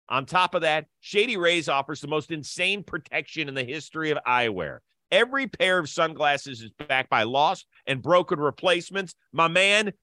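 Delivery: upbeat sponsor ad read. Acted. Podcast host pitching sponsor to listeners, upbeat ad read. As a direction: sell the sunglasses like a radio spot.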